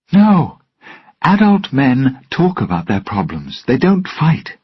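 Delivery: high, loud scolding shout. Acted. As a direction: yell at the men to stop. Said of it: "Elizabeth shouted".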